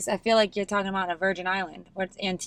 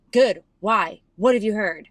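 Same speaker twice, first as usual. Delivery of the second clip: louder, quick defensive reply; mock defensive comeback; 6 dB louder than usual. Ryan Reynolds answers Maya Rudolph's question, louder and defensive. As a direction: snap back as if accused. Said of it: "And he goes".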